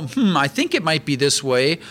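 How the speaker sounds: tentative, musing "hmm" of someone unsure; mock doubtful. Preacher mimicking doubt that Paul lacks, mock doubtful. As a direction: imitate a hesitant guesser hedging. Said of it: "There's no doubt here. There's no".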